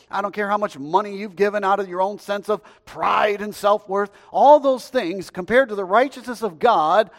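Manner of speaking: emphatic sermon delivery, building then easing at the end; forceful preaching. Real, not acted. Preacher tells congregation their righteousness is filthy rags, emphatic.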